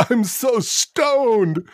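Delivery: high, slow stoned drawl; stoner voice. Retold or imitated. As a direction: play the dazed stoner.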